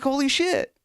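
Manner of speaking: very high-pitched amazed exclamation; retold astonishment. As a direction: replay your stunned delight. Retelling amazement at dad's reaction.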